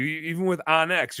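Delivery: ordinary delivery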